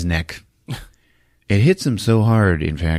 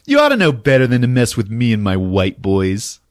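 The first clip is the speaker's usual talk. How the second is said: mock villain taunt; 12 semitones higher, 3 dB louder than usual. Gang boss taunting the cops, high sneering mock villain. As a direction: sneer it like a cartoon thug.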